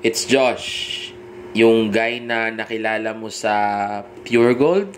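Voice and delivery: hesitant intro rising at Gold; unsure tone. Shown as a demonstration. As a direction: sound doubtful she remembers you. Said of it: "Hindi ka tulad nung ganito". (alanganing tono, parang hindi sigurado)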